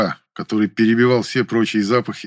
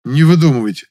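громче, возмущённо; возмутиться отказом; 5 semitones higher, 7 dB louder than usual. A narrator's reading. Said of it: "возмутился я". (Муля возмущён отказом актрисы)

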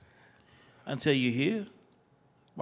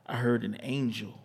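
slow, sensual spoken word; poem recitation; slower than usual. Acted.

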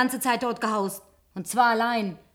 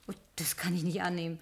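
overwhelmed whisper; 5 semitones lower, 8 dB quieter than usual. Acted. Overwhelmed by necklace.

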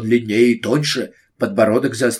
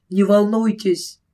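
reassuring; 8 semitones higher, slower than usual. Acted. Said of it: "успокаивала она её".

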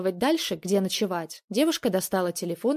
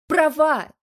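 much higher and louder, furious shout; 9 semitones higher, 9 dB louder than usual. A narrator's reading. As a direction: scream the word back at him. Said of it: "закричала Полина".

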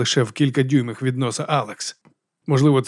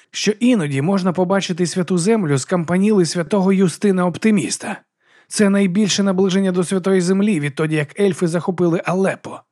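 monk insisting; 6 semitones higher than usual. Acted. Brother Diaz insisting.

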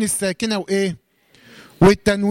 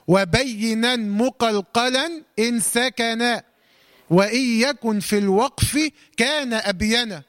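verse recitation; much slower than usual. Shown as a demonstration.

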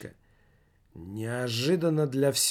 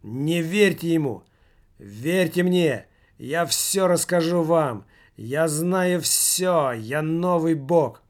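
mock-prophet rant; 4 semitones higher, 4 dB louder, slower than usual. Heckler ranting, mocking the medium.

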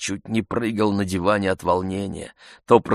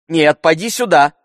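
higher, louder call back; 9 semitones higher, 9 dB louder than usual. A narrator's reading. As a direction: call the servant back loudly. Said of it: "громко сказал он".

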